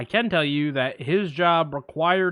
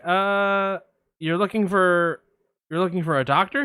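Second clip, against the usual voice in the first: receptionist; 3 semitones higher than usual. Retold or imitated. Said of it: "I'm gonna play both parts".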